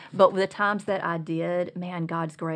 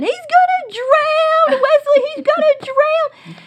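put-on much higher and louder, a small girl wailing; panicked little girl; 12 dB louder than usual. Son imitating his little sister crying over her teddy bear, high and loud. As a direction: squeal it like a little sister whose teddy bear has fallen into the creek. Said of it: "she was saying".

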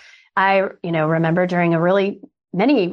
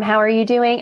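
warm greeting; 3 semitones higher than usual. Shown as a demonstration. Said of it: "a really warm".

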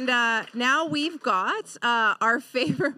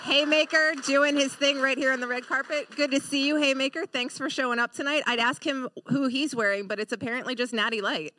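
showbiz host enthusiasm; gushing red carpet chatter. Acted. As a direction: hype every arrival.

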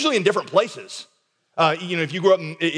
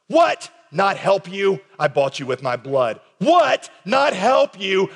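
incredulous what; 3 semitones higher, 3 dB louder, slower than usual. Acted. Voicing God's indignant retort.

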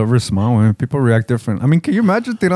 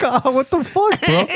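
mock yelp; 10 semitones higher, slower than usual. Kid reacting to being hit.

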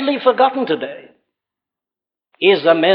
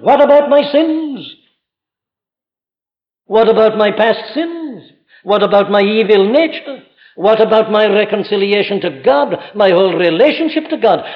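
anguished sinner's plea; 4 semitones higher, 3 dB louder than usual. Retold or imitated. Preacher voicing a convicted sinner's questions, pleading and louder. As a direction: cry out each question like a troubled sinner. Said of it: "the first question such a man faces is".

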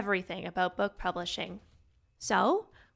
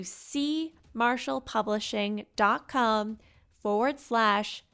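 slow and clear; slower than usual. Shown as a demonstration. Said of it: "like the letter C".

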